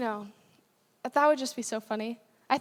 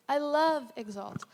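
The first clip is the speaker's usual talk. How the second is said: tender repeat; 2 semitones higher, slower than usual. Real, not acted. Preacher repeats her love for the church: slow, tender, sincere. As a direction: let it land gently, slowly. Repeats the line softer and slower.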